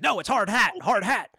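acted-out irritated correction; insistent correction. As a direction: correct them emphatically, playing it up. Insistent correction in retold film quote.

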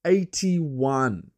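a cheesy radio presenter opening the show; hammed-up show host. Host welcomes listeners to his podcast as a hammed-up presenter. Host's put-on intro voice.

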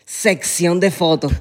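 slow, teasing echo of "sección de fotos"; mock mispronunciation. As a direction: linger on the wrong k in "sección". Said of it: "la misma gente que dice sección".

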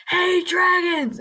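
loud, high, drawn-out summons; imitated commanding holler; Queen Scarlet. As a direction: call out over a screaming crowd. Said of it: "and then Queen Scarlet's like".

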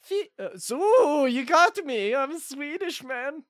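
hammy put-on Swedish accent; fake Swedish accent. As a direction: play a bad Swedish caller. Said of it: "this isn't a very good, uh, Swedish accent".

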